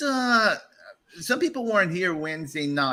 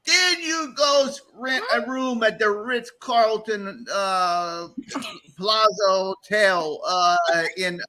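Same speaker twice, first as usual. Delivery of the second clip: incredulous; 5 semitones higher, slower than usual. Acted. Mock outrage at credit card bill.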